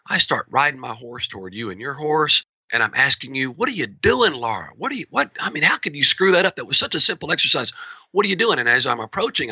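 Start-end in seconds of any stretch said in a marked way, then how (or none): 3.5-8.6 sharp, high demo scolding of a rider; uncorked scolding. Shown as a demonstration. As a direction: let it rip, rising at her as you ride closer. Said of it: "I'm getting louder, I'm getting more aggressive".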